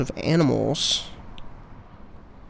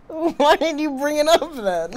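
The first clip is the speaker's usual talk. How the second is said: laughing question; 11 semitones higher, slower than usual. Real, not acted. Laughing at friend's no.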